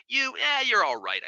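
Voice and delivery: whispered, grudging approval; half-trust him under your breath; mock suspicious aside. Doctor mocking a biased drug-testing colleague, whispered aside.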